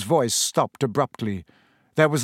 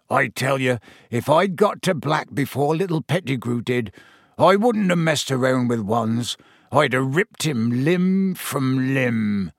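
growled. Acted. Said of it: "Hagrid growled".

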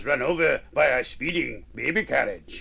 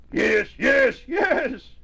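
high, loud, climbing cheer; excited yeses; 9 semitones higher, 4 dB louder, much slower than usual. Acted. Young mouse answering the supper call, excited shout. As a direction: shout each one higher, with excitement. Mouse delighted by new word.

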